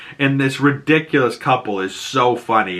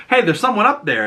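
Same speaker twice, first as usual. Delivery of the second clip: high, raised call upward; cop calling up; 9 semitones higher, faster than usual. Retold or imitated. Cops spotting Peacemaker in the window, high raised call. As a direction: shout it up at the window. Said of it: "and the cops go".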